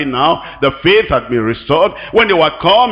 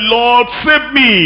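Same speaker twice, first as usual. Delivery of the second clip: desperate cry; 5 semitones higher, slower than usual. Acted. Peter cries out to Lord.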